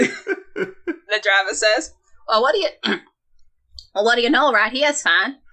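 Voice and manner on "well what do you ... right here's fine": rough attempted Midwestern accent, pitched higher. Retelling a ride, quoting the driver: attempted Midwestern accent. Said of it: "I'm trying for Midwestern".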